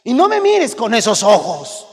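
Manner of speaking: slow down and warn him; stern scold. Pretend. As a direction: parent warning the child about his look. Parent scolding child.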